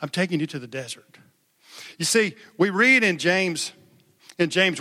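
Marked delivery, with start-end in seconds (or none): 0.0-1.2 God leading Jesus. Retold or imitated. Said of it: "he was like".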